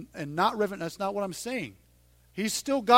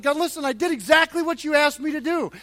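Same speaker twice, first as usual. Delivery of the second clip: loud, higher, building to a shout; desperate outcry; 8 semitones higher, 10 dB louder than usual. Retold or imitated. Moses crying out to God, building to a shout. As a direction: cry out, hurt and let down. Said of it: "He's just very honest".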